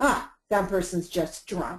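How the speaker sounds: imitated, put-on authoritative tone. Describing a passerby speaking to onlookers about a person on the ground, putting on an authoritative voice. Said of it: "says in a very authoritative voice".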